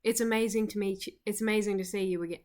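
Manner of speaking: quick attempt at a Southern accent that misses; Southern accent gone wrong, rattled off fast; botched Southern accent. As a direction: try a Southern accent and miss. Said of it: "the one with the accent".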